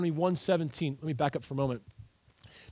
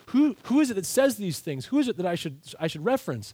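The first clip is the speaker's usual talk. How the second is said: Moses asking; 3 semitones higher than usual. Retold or imitated. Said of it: "He is saying".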